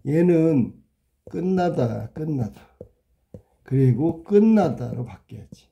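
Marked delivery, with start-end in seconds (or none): 1.3-2.6 끝나다 said softly as a model of the right sound; 끝나다 quietly modelled for students; pronunciation demo. Shown as a demonstration. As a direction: say 끝나다 as written, showing the assimilation. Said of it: "그렇게 하면 안 되지".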